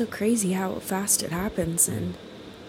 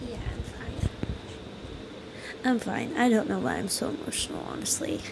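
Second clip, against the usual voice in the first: choked up; 6 dB quieter than usual. Real, not acted. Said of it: "you okay?".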